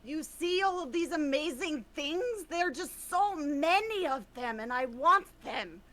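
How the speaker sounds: mildly hammed greedy voice; greedy new voice. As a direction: covet every shiny thing. New voice for Essuri.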